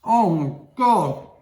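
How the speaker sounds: amazed. Real, not acted. Tasting the cookie.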